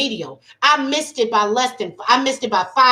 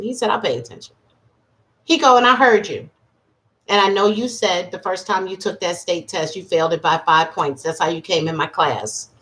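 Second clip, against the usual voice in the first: lower, steady professor voice; lightly lowered professor voice; kindly professor; 6 semitones lower, faster than usual. Retold or imitated. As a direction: speak like a mentor giving good news.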